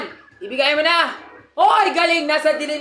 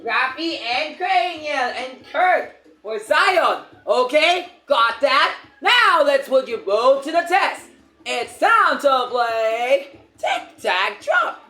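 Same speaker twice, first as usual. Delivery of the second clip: slow game show read; slow announcer read; much slower than usual. Acted. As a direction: drag out the host lines slowly. Reads game narration slowly.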